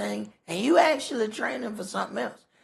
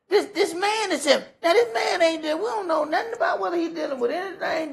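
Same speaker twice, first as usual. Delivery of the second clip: high, laughing through the words; chuckling while making the point; amused teacher laughing mid-lesson; 10 semitones higher, faster than usual. Real, not acted.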